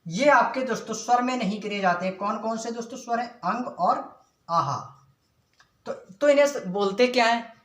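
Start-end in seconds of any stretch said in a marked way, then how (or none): 3.3-4.8 slow drill. Shown as a demonstration. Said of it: "teacher drills".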